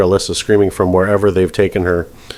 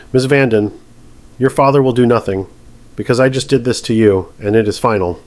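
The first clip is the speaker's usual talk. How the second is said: calm measured. Acted. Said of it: "Still calm, still measured".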